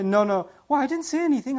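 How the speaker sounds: feigned innocence, acted out in retelling; mock innocent denial. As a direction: play the sneaky one denying it all. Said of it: "she could be really sneaky".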